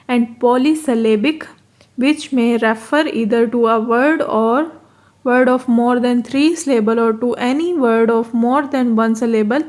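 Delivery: very slow, careful reading of the English text; reading the textbook aloud. Shown as a demonstration. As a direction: spell the definition out word by word for students. Reads the English definition. (अंग्रेज़ी परिभाषा को बहुत धीरे-धीरे पढ़ना)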